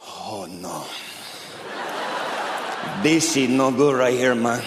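imitated trapped miner. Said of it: "Do you think they're down that mine going".

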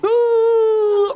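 high, loud, panicked "Ooh"; a sudden high cry of alarm; panicked wife. Retold or imitated. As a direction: yelp it out like a frightened wife. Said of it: "Brandy's going".

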